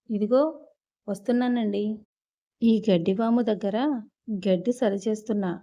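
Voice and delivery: loud reply called across the yard, hurrying; calling back loudly. Acted. Rangamma answers the landlady from the haystack, loud hurried call back. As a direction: shout back to the house, quick. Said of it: "అని గట్టిగా".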